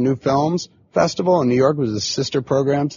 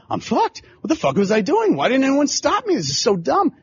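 high-pitched frantic self-reproach; retold hyperventilating panic; 12 semitones higher than usual. Young filmmaker berating himself at his failing screening, retold panic. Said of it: "it was hyperventilation".

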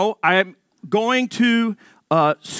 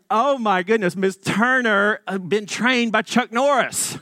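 laughing amazement; 4 semitones higher than usual. Retold or imitated. Amazed at teacher's takedown.

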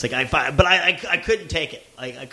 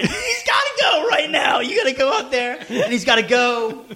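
laughing mock demand; 5 semitones higher than usual. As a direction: demand it half-joking, voice up. Retold angry phone demand.

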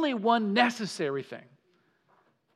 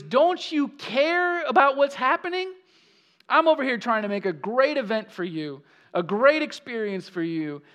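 higher, louder exasperated protest; indignant complaint; 4 semitones higher, 3 dB louder than usual. Retold or imitated. Preacher voicing Martha scolding Jesus, exasperated. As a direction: needle Jesus with frustration. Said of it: "she's getting on Jesus".

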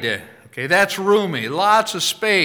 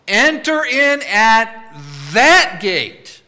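slow, loud, higher command with THAT hammered; louder, forceful repeat of the command; 5 semitones higher, 7 dB louder, slower than usual. Acted. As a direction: call it out like a divine order. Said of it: "with all the force of the divine nature".

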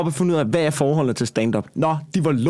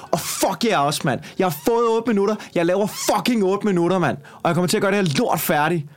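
higher-pitched, indignant rant; worked-up comeback without shouting; retold rage; 4 semitones higher than usual. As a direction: replay telling off the hecklers. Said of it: "i raseri".

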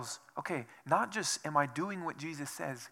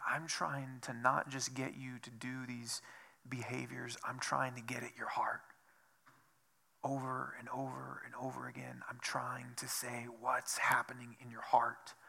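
hushed Jesus quote; 3 semitones lower, 7 dB quieter than usual. Retold or imitated.

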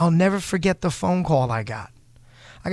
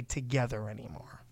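whispered aside; 5 semitones lower, 13 dB quieter than usual. Real, not acted. Hinting at rival's breakup.

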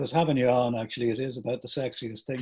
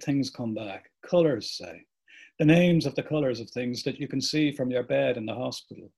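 measured reading of a character's speech; literary reading with pauses between thoughts; dramatic book reading. Acted. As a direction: read it as a reflective monologue, phrase by phrase. Reads a part from the book.

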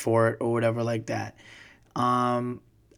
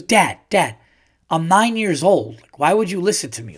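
son's voice; 4 semitones higher than usual. Retold or imitated. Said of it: "and he goes".

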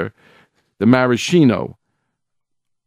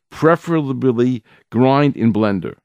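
Preferably leaned on, the line slowed down; stress on preferably; 2 semitones higher than usual. Shown as a demonstration. Teacher quoting the rabbi's key phrase, stress on Preferably. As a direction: dwell on the word Preferably. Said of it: "I stress that word preferably".

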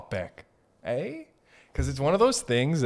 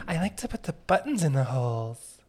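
put-on little baby. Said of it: "I'm a little baby".

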